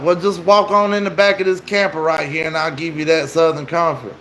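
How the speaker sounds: casual retold invitation; imitated coaxing stranger. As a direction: lightly voice a stranger coaxing someone along. Stranger luring them into camper, retold.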